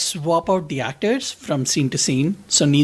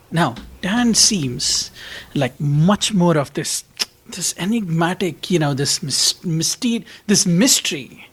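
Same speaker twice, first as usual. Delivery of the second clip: mock mystical. Mock mystical grand description.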